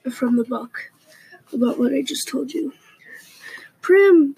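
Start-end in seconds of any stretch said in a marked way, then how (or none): 3.8-4.3 high desperate shout of a name; strangled cry. Acted. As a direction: cry out her sister's name in panic. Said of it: "the strangled cry comes out of".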